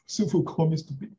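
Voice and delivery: chuckling through the words; laughing. Real, not acted. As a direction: laugh while you say it. Laughing at own story.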